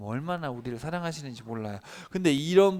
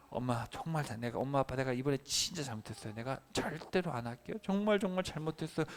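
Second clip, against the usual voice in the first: put-on contrite child apology; 6 dB quieter than usual. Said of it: "진짜 진심으로 엄마 아빠한테 얘기하면".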